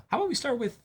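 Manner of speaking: half-whispered conspiratorial aside; hushed aside. Real, not acted. Host to co-host, a sly half-whispered suggestion. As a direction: drop to a sly near-whisper.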